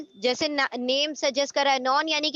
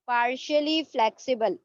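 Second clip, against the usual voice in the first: slow term introduction; much slower than usual. Shown as a demonstration. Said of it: "teacher introduces new term".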